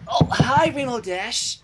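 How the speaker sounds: put-on high little-girl voice, pitched well up; filly voice. Scootaloo greeting Rainbow Dash in a high innocent filly voice. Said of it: "I can't do cutie bar crusaders".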